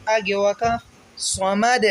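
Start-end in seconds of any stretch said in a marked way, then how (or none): 1.2-1.8 صمد with a bouncing released final د; صمد ending in a bounced dal; qalqala on dal. Shown as a demonstration. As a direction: let the د of صمد echo at the stop. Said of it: "دال کو قلقلہ کریں گے".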